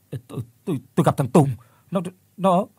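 broken stutter, ending high; stammering fright. Acted. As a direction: gasp out the name in fear. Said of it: "giọng nói run rẩy của Phước".

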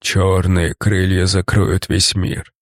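slow, low gurgle through blood; gurgling monster. Acted. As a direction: gurgle the words like a drowning beast. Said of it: "пробулькал монстр".

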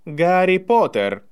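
high, slow formal address; loudly said. A narrator's reading. Draco addresses Harry before everyone, loudly. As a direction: draw out the full name for all to hear. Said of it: "громко сказал Драко".

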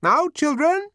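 high, loud call across the room. A narrator's reading. Nurse calling the twins to order, loud call. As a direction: gather the children up. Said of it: "she called".

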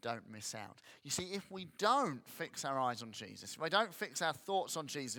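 normal talking voice

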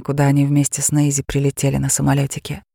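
plain reading voice

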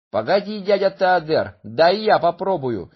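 put-on high eager boy. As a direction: chirp it like a small boy. Boy Chuba speaks to giant.

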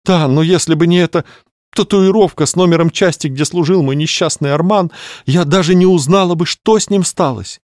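high, plaintive widow-to-be; grieving lady voice. Acted. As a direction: lament it like a theatrical mourner. Clarissa continues lament. (скорбящая дама)

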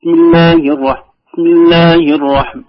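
"بسم" with the opening b barely sounded; loud slow recitation, dropping the ب of "بسم"; swallowed ba. Retold or imitated. Teacher imitating reciters who hide the ba, swallowed first letter of "بسم". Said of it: "لا يظهر الباء في البسملة".

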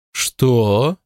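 sharp startled «Что?»; startled exclamation. A narrator's reading. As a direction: catch her off guard. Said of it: "воскликнула Бет". (удивлённый возглас)

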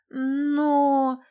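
a long, noncommittal drawn-out Но; drawn-out vague. Acted. Tanya avoids the question about the parents, drawn out and vague. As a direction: stretch it out, buying time. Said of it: "неопределённо протянула Таня".

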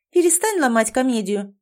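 a touch of strictness, voice kept up; mildly stern telling-off; stern shushing. Acted. Girl orders the heroine to stop pretending, mildly stern. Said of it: "строго шикнула она".

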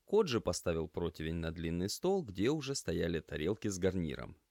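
plain reading voice

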